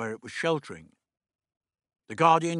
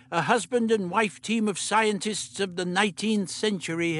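put-on higher, brisk old doctor; 6 semitones higher than usual. The Doctor instructing Meliam, brisk fussy voice. Doctor chats about the Curies.

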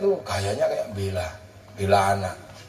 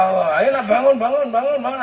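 put-on louder, rising calls to wake the kids; calling out; 7 semitones higher, 4 dB louder, faster than usual. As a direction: rouse the children, bangun rising each time. Voices waking children at dawn. (membangunkan anak dengan seru)

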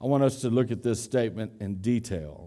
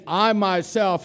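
"I myself" raised and slowed; emphatic I myself; 6 semitones higher, slower than usual. Shown as a demonstration. Preacher explaining the claim, stressing "I myself". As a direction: press on "I myself". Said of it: "when Jesus is saying".

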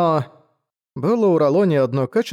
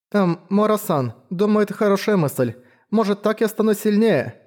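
put-on lightly raised young girl's voice, shy; timid girl voice; 7 semitones higher than usual. A narrator's reading. Shy girl answering her mentor, lightly raised girl voice.

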